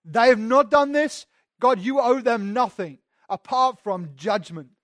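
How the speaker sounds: a hint of a proud Pharisee telling God he's owed; smug Pharisee. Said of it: "It's like".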